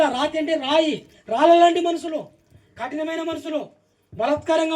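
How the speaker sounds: preacher listing in a high, insistent voice; preaching. Real, not acted. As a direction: drive each point home to the congregation. Preaches with raised voice.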